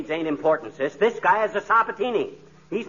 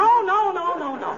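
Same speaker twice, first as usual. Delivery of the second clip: alarmed shout; 10 semitones higher than usual. Acted. Stopping the girl's wild plan.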